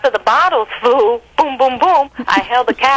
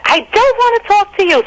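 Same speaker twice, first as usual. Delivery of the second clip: yelled refusal; 11 semitones higher than usual. Retold or imitated. Lola shouting back at her girlfriend, refusing. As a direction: shout the refusal over your shoulder.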